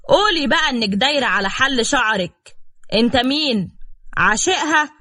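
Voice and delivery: husband loudly accusing his wife before her father; loud accusation. Acted. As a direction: call it out for all to hear. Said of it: "وقال بصوت عالي".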